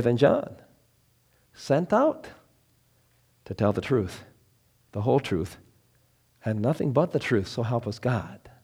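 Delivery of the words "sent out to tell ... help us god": quiet reverent oath; hushed oath. Acted. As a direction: let it fall to a hush.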